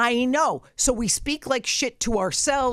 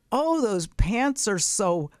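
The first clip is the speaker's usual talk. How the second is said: mocking friend; much slower than usual. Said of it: "So they always say".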